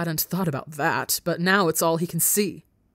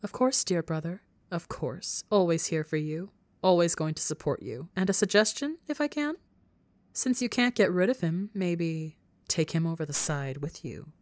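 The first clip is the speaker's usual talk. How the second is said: sly whisper. Acted. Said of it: "whispering in his ear".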